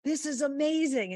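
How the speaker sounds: retelling her joy as the crowd cheers; a happy golfer waving to fans; delighted golfer. Retold or imitated.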